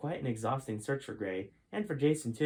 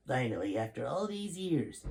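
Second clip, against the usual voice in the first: general in awe. Acted. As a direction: let the awe stretch the words out. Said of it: "began General Sheldon in awe".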